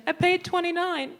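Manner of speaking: high indignant mom voice; imitating her mom protesting. Mom protesting the price to the clerk, high.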